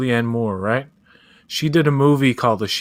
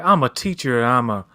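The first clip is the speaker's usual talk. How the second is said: mock bad Southern accent. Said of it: "he talks like this".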